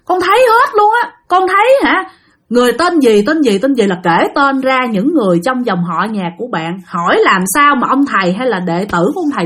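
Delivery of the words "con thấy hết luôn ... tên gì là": pitiful ghost. Retold or imitated. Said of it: "nói rằng á".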